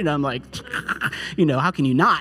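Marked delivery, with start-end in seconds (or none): 0.5-1.3 soft, voiceless imitated sob; hammed-up little burst of weeping; mock emotional breakdown. Preacher imitating himself losing composure, mock emotional. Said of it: "getting emotional at that point".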